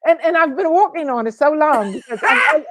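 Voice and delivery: hammed-up amateur London accent; wobbly mock British English; put-on British accent. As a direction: defend your not-quite-great British accent. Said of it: "your British accent today".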